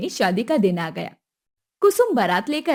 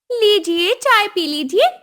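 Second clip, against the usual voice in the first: higher, pushy demand; demanding mother-in-law; 9 semitones higher, 5 dB louder, slower than usual. Acted. Kusum demanding the dowry at the wedding, high and pushy. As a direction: ask for the money like it's owed.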